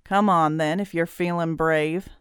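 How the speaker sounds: understated taunting dare; sneering. Acted. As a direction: sneer lightly through a grin. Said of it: "Grinning, he sneered".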